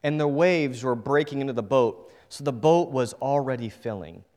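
measured, dramatic reading of the gospel; scripture reading. Acted. Preacher reading scripture to the congregation, dramatic. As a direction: read the storm passage to the church. Reads the gospel passage aloud.

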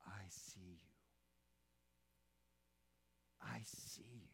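hushed, tender whisper as Jesus; whispered tenderness. Acted. Jesus whispering to the bruised listener, tender hush. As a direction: breathe it softly, close and gentle.

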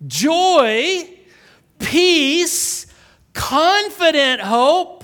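rousing emphasis. Real, not acted. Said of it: "What are we full of?".

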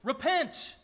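high, loud accusing cry; prophet's yell. Retold or imitated. Pastor voicing John the Baptist yelling at Herod. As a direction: shout the sin out at the king. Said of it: "John the Baptist yells out".

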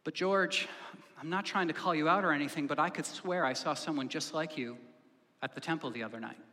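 mild, tentative sheepishness; sheepish. Acted. Group member awkwardly calls out his friend, sheepish. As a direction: gently broach an awkward accusation, sheepishly. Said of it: "somewhat sheepishly at first".

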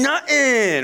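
nothing said as nuh-in, t swallowed; nothing with the th dropped; Philly nothing. Retold or imitated. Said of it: "she says like that".

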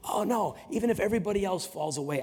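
high-pitched protest, acting Peter; acted boastful vow; boasting. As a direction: swear loyalty with overblown confidence. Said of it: "when he boasts to".

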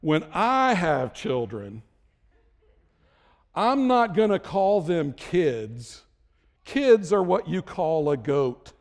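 slow, pompous declaration; know-it-all. Retold or imitated. Young preacher lecturing his sister, slow and pompous. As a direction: lay down the law like you know everything. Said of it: "I remember saying to my sister".

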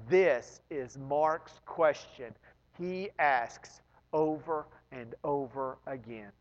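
ordinary talk

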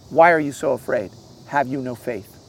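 understated, sober rebuke; almost harsh question. Acted. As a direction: answer back with a restrained, falling challenge. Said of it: "an almost equally harsh question".

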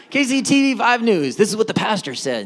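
loud mock news headline; joking newsreader voice, projected; mock news announcer. Imagined news report of his clip.

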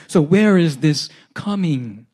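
sarcastic. Acted. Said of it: "a question dripping with sarcasm".

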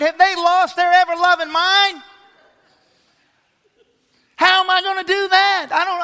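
loud, high, furious venting; livid rant. Retold or imitated. Pastor venting to his wife in the car, loud and furious. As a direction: blow up at the whole idea. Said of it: "and I was so livid".

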